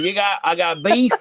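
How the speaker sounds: hammed-up Georgia farmer Southern accent; mock Southern accent. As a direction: put on a Southern accent with a sounded B on lamb. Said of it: "Southern accent".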